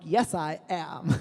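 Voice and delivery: slow, drawn-out lovestruck answer; smitten reply. Retold or imitated. Guy paired with his crush, smitten reply. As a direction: savour each word, dazed by her.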